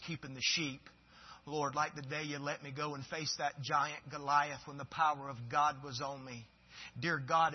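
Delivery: David humbly asking God for renewal; softly voiced David praying. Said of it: "I'm paraphrasing here".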